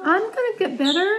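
tag. Real, not acted. Comforting tearful daughter.

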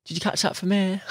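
high, wide-eyed amazement; amazed passerby. Retold or imitated. Passerby at the park lake seeing a big fish, high amazed. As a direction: gasp at the fish like you've never seen one. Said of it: "Some people come over".

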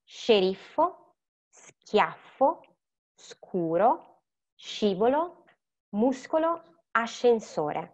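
each word said slowly and carefully, one at a time; careful teacher demonstration; Italian pronunciation drill. Shown as a demonstration. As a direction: model the Italian words clearly for students. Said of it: "I'm gonna repeat them one more time".

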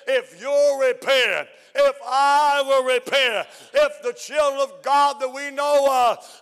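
rising, shouting preacher cadence; fiery preaching. Acted. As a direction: preach it out to the church, building. Preaching at full force.

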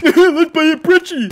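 slow, laughing mock enthusiasm; mock cheerful sarcasm. Real, not acted. Gamer mocking his own misbuy, slow laughing sarcasm. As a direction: parody your own dumb choice.

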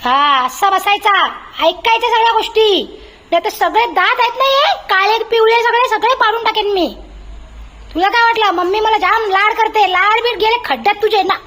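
high, teasing mock telling-off; mother teasing her dog about pani puri; mock scolding. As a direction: wag a finger at a spoiled pet in fun.

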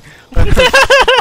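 high, loud burst of laughter; shrieking laugh. Real, not acted. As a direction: break into a shrill laugh. Laughs at own story.

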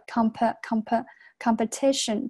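"comp-, comp-, competition" built up in pieces, TI stressed. Shown as a demonstration. Teacher drilling students, "competition" stressed on the third syllable. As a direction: repeat "comp-", then land on TI in "competition". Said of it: "重音在这个地方".

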